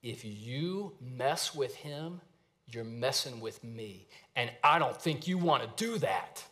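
slow, soft menacing warning; a big man's low-key threat over someone's shoulder; quiet big-man warning. Retold or imitated. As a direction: lean in and warn the kid, slowly and softly. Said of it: "he says to this kid".

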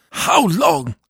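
"How long?" cried high and loud with a falling end; a desperate wail to God; anguished cry. A narrator's reading. Dead priest begs God for rest, high wail. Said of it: "cried the voice of Jean-Marie".

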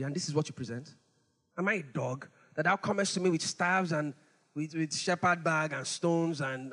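low, scornful Goliath voice; insulted giant. Retold or imitated. Preacher voicing Goliath scoffing at David, low and scornful. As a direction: sneer down at the boy.

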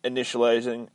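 high, slow malfunctioning computer; damaged AI suit voice, stuttering status report; glitching robot voice. Acted. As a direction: report damage like a failing machine.

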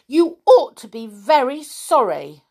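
high, loud aggrieved reproach; storybook injured dignity; hurt voice. A narrator's reading. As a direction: demand an apology, wounded. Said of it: "in a hurt voice".

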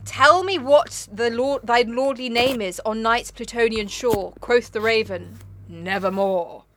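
drawn-out poetic declamation; poem recitation. Acted. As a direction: intone it slowly and portentously.

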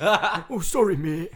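high, loud, laughing mock sorry; hammed-up apology through a laugh.

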